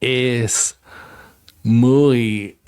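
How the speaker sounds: mock Aussie accent on Spanish, slowing at the end; playful Spanish in an Aussie accent; Australian accent Spanish. Still on request, Spanish in a mock Australian accent. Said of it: "Speak Spanish in an Australian accent".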